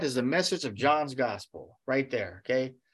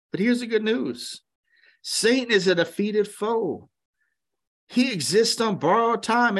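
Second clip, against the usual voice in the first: rising sermon voice, louder and higher; preaching; 7 semitones higher, 3 dB louder than usual. Acted. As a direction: preach it to the congregation with fire. Preaching climax.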